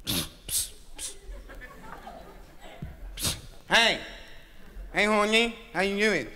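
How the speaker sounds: bashful, hushed come-on; shy whisper. Acted. Bashful guy whispering to woman.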